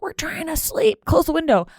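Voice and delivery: high-pitched mock passenger whine; complaining passengers. Imitates complaining plane passengers.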